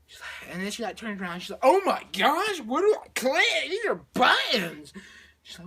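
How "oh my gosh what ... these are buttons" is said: loud, swooping, drawn-out whine; high, overwhelmed wail; mock panic. She turns to the controls, mock panic.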